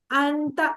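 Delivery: अंता with the noon hidden in a nasal hum; ikhfa on अंता. Shown as a demonstration. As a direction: say अंता, holding a nasalized n before ता. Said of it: "नून पे इख्फा करना है".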